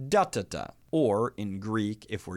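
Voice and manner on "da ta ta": first beat stressed, then two light ones: DA-ta-ta; dactyl rhythm. Shown as a demonstration. Teacher showing students the dactyl beat, stressed. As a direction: tap out da-ta-ta as one strong and two weak beats. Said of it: "So in English, it would sound like".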